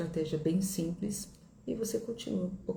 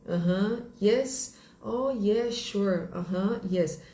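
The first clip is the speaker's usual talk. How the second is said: nodding along with higher, put-on agreement; feigned understanding; 4 semitones higher, much slower than usual. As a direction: pretend you follow every word. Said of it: "Fingindo que tá, que está entendendo".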